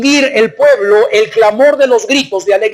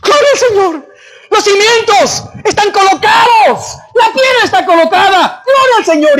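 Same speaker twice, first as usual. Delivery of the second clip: very high, ecstatic shouting; acted exultant praise at full voice; jubilant acclamation; 11 semitones higher than usual. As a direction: cry out like a celebrating crowd. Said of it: "La primera actitud, ¿cuál fue?".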